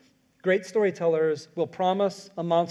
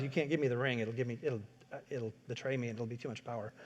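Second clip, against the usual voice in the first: hushed Gandalf; 5 semitones lower, 10 dB quieter, faster than usual. Retold or imitated. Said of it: "he knows".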